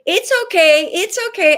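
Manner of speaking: high, loud sing-song "It's okay, it's okay"; mock reassurance. Mocking what people say about a dying pet, high sing-song reassurance. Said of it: "when people say".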